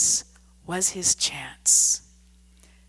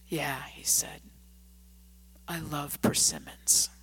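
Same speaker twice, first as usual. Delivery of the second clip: softened; 4 semitones lower, 4 dB quieter than usual. A narrator's reading. Drunk softens, speaks low.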